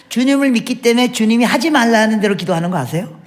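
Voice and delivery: usual speaking voice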